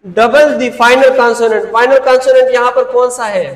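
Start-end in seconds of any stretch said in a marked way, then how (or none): 0.1-1.7 slow emphatic dictation. Shown as a demonstration. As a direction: Double the final consonant drawn out very slowly. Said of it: "repeated rule".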